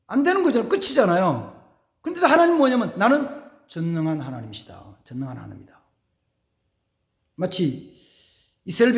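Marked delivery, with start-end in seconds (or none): 3.0-5.8 low, hushed voice of God. Acted. God declares himself almighty.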